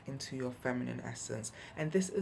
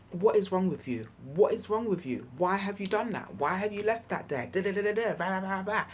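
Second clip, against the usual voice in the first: put-on old nagging voice; 3 semitones higher, 4 dB louder than usual. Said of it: "before it would have been a".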